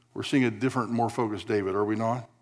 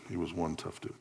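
softer, lower aside on "one tough dude"; quiet repeat; 5 semitones lower, 10 dB quieter than usual. Shown as a demonstration. Preacher repeating the joke to the congregation, quietly. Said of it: "let's just say it this way".

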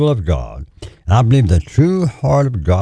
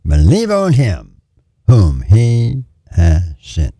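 slow and solemn, each word set apart; hint of a divine voice, deliberate; voice of the Lord; slower than usual. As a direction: let the words fall like a heavenly command. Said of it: "the Lord said these words".

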